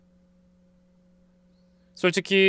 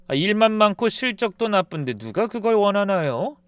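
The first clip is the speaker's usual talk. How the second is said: usual speaking voice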